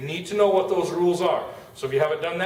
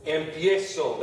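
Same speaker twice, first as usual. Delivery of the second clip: "Empiezo" stressed on the "pie"; stress on middle syllable; slower than usual. Shown as a demonstration. Teacher showing where the stress falls, "Empiezo" stressed on its middle syllable. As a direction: lean on the e after "pi" in "Empiezo". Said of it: "That eso is where we need to put it".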